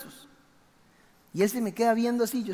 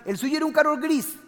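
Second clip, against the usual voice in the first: put-on old guard; 8 semitones higher, 6 dB louder than usual. Old guard voiced in story.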